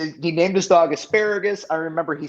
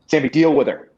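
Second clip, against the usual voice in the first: louder, blunt order; flat insistence; 6 dB louder than usual. Retold or imitated. Bryan tells Sami again to handle the woman, louder. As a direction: say it like the last word on it.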